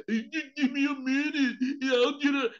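hammed-up dopey husband; stupid-sounding man. Preacher mocking the husband to the church, dopey voice. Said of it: "make the man sound real stupid".

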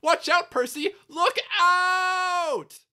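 high shrieked warning, last word drawn out; Thomas. A narrator's reading. Thomas warning Percy of a crash, cracking shriek. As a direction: cry out in alarm with the voice cracking. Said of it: "shrieked Thomas".

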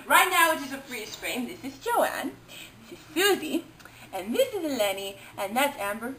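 mock British reviewer accent; put-on British accent. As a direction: gush like a British critic, lively ups and downs. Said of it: "I've acquired a British accent".

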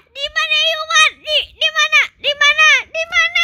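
high frantic where; panicked searching. Pretend. Lost in the game, high frantic questions. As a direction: ask around in panic.

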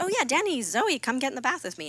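high, loud, cheerful call; calling out to kids. Retold or imitated. In the bath, calling the kids over to join. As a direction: invite them in with a sing-song call.

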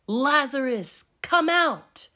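Jesus roaring into the tomb; mighty yell. Acted. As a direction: call him out of the tomb like a lion's roar. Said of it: "yelled like a lion's mighty roar".

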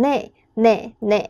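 呢 repeated as Korean "ne", drawn out; Korean word demo. Shown as a demonstration. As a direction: say 呢 slowly as the Korean yes, "ne". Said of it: "你会常常听到他们讲".

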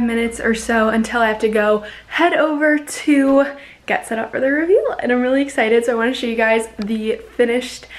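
bright excited vlogger. Real, not acted. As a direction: gush about the big reveal. All ready, hyped vlog.

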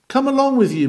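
high, loud friendly summons; calling out. Acted. Preacher calling the odd man to Christ, loud. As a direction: call the sinner in, high and bright. Preacher calls sinner to come.

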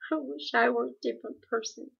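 shakily. Acted. Meg tells Calvin she wishes she were someone else, shakily. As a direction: let the voice waver a little. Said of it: "Meg said shakily".

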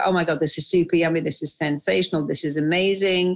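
fast, gushing praise for the food; gushing delight. Shown as a demonstration. Showing the host how she relishes food, fast gushing. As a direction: rave about each bite, quickly. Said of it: "I don't kind of just eat and I go".

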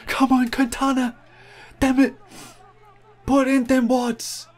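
high, loud urging shout; excited cheering. Real, not acted. Gamer shouting at his rider Quintana to push, high and loud. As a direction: roar your rider up the climb.

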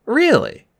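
high-pitched, slightly scared question; a little scared. A narrator's reading. Percy questions a boy stuck in the past, a little scared. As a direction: ask it with a touch of alarm. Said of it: "getting a little scared".

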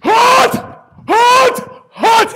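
high, loud grunted shouts; straining shout. Acted. Lifter counting reps under the bar, loud straining shouts. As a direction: push out each rep with a yell.

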